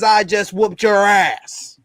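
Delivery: harsh whispered shout. Retold or imitated. Austin's punchline to a beaten preacher, whispered shout. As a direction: spit it out in a breathy yell. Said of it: "Austin three sixteen says".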